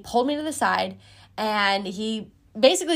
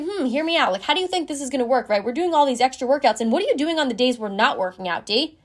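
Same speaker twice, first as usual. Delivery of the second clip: imitated coach confronting an athlete, higher-pitched; retold challenge with a slightly raised voice; coach slightly raising his voice; 4 semitones higher than usual. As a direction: press the questions like a mildly exasperated coach. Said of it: "raising his voice slightly".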